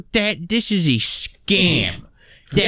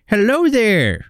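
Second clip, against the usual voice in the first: suave greeting; 6 semitones higher, slower than usual. Acted. Greeting woman on chat line.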